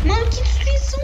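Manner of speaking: very high, loud amazed cry; astonished. Real, not acted. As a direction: shriek at the destruction. World being destroyed in game.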